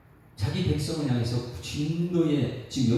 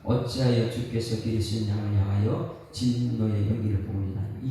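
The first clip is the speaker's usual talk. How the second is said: reading scripture together; 7 semitones lower than usual. Shown as a demonstration. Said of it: "같이 읽습니다".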